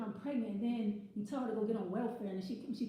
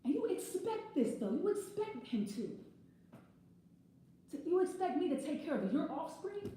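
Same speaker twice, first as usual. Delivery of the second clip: high, slow, outraged question; angry disbelief; 6 semitones higher than usual. Real, not acted. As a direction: stretch it out in outrage. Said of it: "This is sounding kind of angry".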